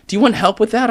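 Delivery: a lightly played keen boss; mildly hammed-up excited broker. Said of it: "He was like".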